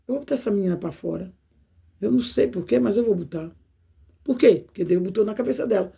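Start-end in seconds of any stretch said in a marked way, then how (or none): 0.1-3.5 a low, quick murmur from the boss; a hint of a scheming boss; muttering boss. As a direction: mumble it to yourself fast, like a boss deciding. Boss voiced in story.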